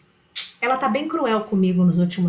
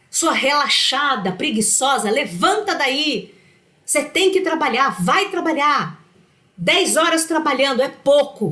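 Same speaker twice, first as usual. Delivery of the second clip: nagging inner tyrant; 4 semitones higher than usual. Retold or imitated. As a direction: bark orders at a lazy self. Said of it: "Essa voz também fala assim".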